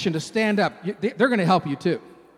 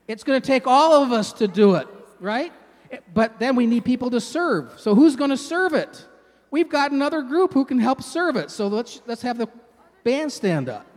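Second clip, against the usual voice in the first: excited; 4 semitones higher, 4 dB louder than usual. Real, not acted. Rallies kids to stand and help.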